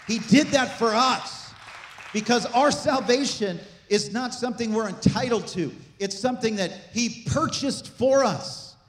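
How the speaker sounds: emphatic pulpit proclamation, building in pitch; impassioned preaching. Real, not acted. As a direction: proclaim salvation to the congregation with rising fervour. Preaches salvation with rising force.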